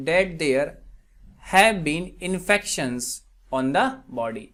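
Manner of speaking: very slow, spaced-out example reading; slow dictation. Shown as a demonstration. Teacher gives students an English translation, slow dictation. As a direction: read it out slowly, phrase by phrase. Reads example sentence slowly.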